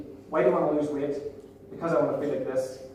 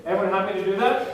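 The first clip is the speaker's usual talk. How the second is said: more energy, quicker; louder, faster repeat; 3 semitones higher, faster than usual. Real, not acted. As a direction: ask again, louder and faster to pump them up. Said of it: "You sound really happy".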